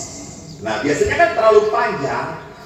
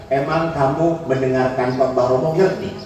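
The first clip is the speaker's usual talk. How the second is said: lower, composed retort; calm husband; 5 semitones lower than usual. Retold or imitated. Husband answers his scolding wife, calmly. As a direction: imitate an unruffled husband answering back. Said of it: "suaminya dengan tenang berkata".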